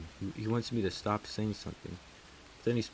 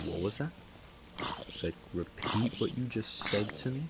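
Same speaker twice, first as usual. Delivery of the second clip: mildly indignant retold demand; a touch of anger, imitated; mock indignant; 3 semitones higher than usual. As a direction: demand a repeat, voice rising at the end. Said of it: "I made him sound like he was mad".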